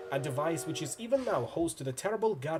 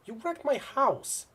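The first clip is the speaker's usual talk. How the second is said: high, slow, indignant shout; angry accusation; 12 semitones higher, 3 dB louder, slower than usual. Acted. Hero confronts villain over the house, indignant shout. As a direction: throw the grievance at him.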